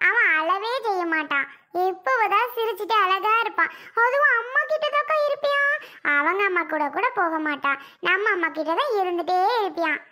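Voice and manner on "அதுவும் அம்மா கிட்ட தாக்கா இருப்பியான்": put-on high, piping child voice; little brother. Little brother telling sisters about the baby, piping voice.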